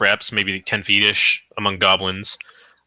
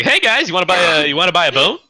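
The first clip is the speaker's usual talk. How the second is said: high, quick street-hawker pup; hustling wolf pup; 8 semitones higher, 5 dB louder, much faster than usual. Acted. Pup offering the party a bone, high hustler voice. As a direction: pitch it like a cheeky little peddler. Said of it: "one of the pups will, I was like".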